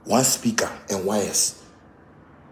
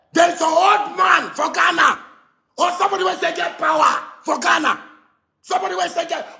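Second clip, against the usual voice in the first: heated shouting; 5 semitones higher than usual. Real, not acted. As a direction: shout it out in anger. Heated rant continues.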